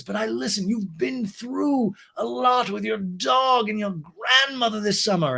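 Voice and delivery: high, slow put-on voice; Lisa. Recapper playing Lisa confiding in Ariana, high drawn-out imitation. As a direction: draw it out in an exaggerated high pitch.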